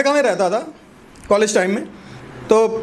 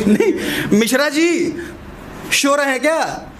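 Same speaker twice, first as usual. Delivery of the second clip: slow, drawn-out Bihari calling, शो for सो; Bihari wife's accent; 4 semitones higher, slower than usual. Retold or imitated. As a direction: lean into the Bihari lisp on शो. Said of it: "उनकी बीबी बोलती है".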